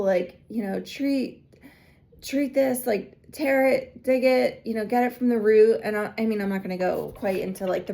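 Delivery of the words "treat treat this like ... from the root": urgent plea. Retold or imitated. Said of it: "I call upon Archangel Michael".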